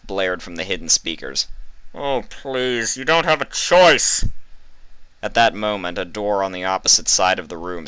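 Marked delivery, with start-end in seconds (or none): 1.9-4.2 a higher, louder sneering taunt; mocking scorn. A narrator's reading. Interrogator to Vinyl, scornful. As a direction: taunt her, amused.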